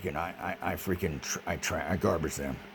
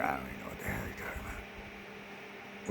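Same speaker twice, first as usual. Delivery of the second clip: mock yell; 7 semitones lower, 10 dB quieter than usual. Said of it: "I get someone yelling out here".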